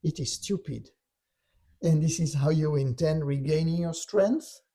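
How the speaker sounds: imitating a goading tempter; lightly scornful challenge ending in a question; taunting. Dark voice goading Yeshua about his strength, taunting. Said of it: "he's really taunting him".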